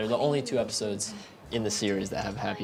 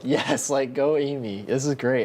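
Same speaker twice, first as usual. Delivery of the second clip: retold cheer, a little lifted; mildly excited, rooting for someone; 3 semitones higher, slower than usual. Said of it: "I was so excited".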